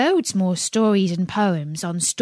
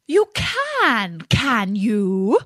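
yelping fox; 2 semitones higher, 3 dB louder, much slower than usual. A narrator's reading. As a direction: yelp it sharply as the fox. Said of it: "yelped the fox".

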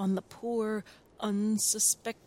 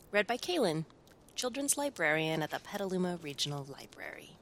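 picture book reading. A narrator's reading. Librarian reads to children, storytime voice. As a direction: clear storytime narration for children.

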